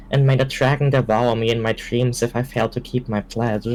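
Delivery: put-on earnest oath read without the French accent; solemn oath. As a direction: swear it solemnly, voice steady. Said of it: "impress us".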